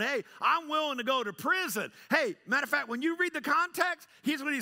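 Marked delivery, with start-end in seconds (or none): 0.0-1.9 high-pitched bragging; big and bold. Acted. Jesus echoing Peter's boast about prison, big and bold. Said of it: "you were big and bad and bold".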